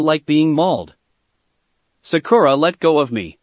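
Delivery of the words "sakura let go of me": chilly. Acted. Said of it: "His words were chilly".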